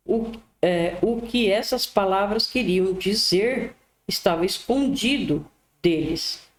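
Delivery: measured Bible reading with deliberate phrasing; scripture reading. A narrator's reading. Preacher reads the Gospel to listeners, measured read-aloud.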